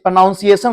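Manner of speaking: प्रोनाउंसिएशन with "noun" in the middle; mispronounced pronunciation. Shown as a demonstration. Teacher quoting critics who mispronounce it, wrong vowel. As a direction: say प्रोनाउंसिएशन as "pro-noun-siation". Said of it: "This is not pronunciation".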